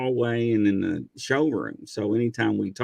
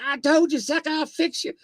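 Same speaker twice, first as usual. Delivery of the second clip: gloating shout. Retold or imitated. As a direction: rub it in while zapping him. Fighter gloating while tasing.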